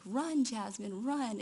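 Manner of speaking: mild mock yell telling her friend to run; screaming to run. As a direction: call her to run, half-held back. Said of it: "I was just screaming".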